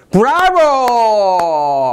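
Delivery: hugely drawn-out bravo; triumphant cheer. Acted. Teacher celebrates his memory tip cracking the question, triumphant cheer. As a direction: stretch the cheer out slowly, sliding downward. Cheer rehearsed earlier, at the answer.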